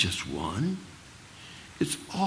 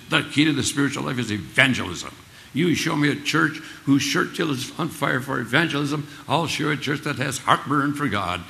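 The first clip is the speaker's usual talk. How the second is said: threatening crackly preacher; 4 semitones higher, 5 dB louder than usual. Retold or imitated. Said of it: "crackly voice".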